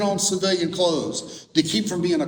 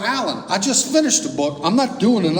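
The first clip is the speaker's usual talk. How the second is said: retold protest, louder and higher; mock-indignant refusal; exasperated refusal; 4 semitones higher, 4 dB louder than usual. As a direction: push back at a friend, acting out exasperation. Refusing friend's book idea in story.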